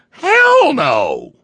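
loud high-pitched shout. Real, not acted. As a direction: bellow it out in outrage. Ranting host shouts rhetorical answer.

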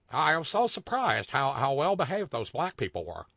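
lightly put-on white-person caricature; Richard Pryor white people voice. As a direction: redo the mock-astonished white man, lightly. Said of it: "that's my Richard Pryor white people voice".

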